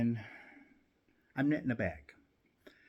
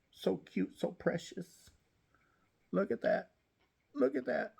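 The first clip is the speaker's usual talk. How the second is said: cooing over kitten; 10 semitones higher than usual. Real, not acted. Owner coos high over her plump kitten. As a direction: gush over the little kitten in a high sing-song.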